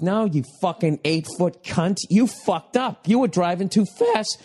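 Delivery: retold yell climbing high without real volume; high-pitched exasperated rant. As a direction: scold the screen, pitch rising till it cracks. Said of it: "I'm yelling at the T V".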